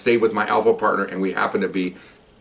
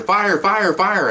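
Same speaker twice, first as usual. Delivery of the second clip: retold yell; 10 semitones higher, much slower than usual. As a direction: call out a fire warning, held back. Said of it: "I'm yelling there".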